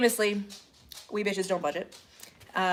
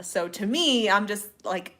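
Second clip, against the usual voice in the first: usual speaking voice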